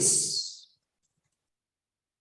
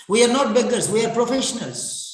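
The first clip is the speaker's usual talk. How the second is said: louder, firm insistence; emphatic; 3 semitones higher, 4 dB louder, faster than usual. Real, not acted. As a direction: declare it firmly. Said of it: "lecturer insists".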